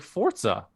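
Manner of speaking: Forza pronounced FORT-suh. Retold or imitated. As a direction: put a t before the z in Forza. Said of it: "There's no T in there".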